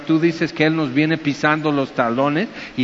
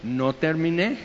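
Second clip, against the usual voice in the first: calm firm reply; 6 dB quieter than usual. Shown as a demonstration.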